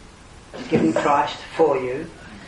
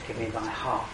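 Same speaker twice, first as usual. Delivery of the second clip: God's gentle call; 5 semitones lower, 8 dB quieter than usual. Acted. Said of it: "God says".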